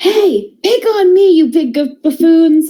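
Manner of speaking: shrill, loud, goading, taunting scream. Taunting enemies to draw their attention: screaming taunt. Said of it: "I'm also gonna scream and be like".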